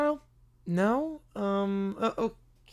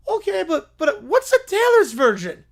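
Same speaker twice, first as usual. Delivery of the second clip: baffled laugh; 7 semitones higher, 6 dB louder than usual. Acted.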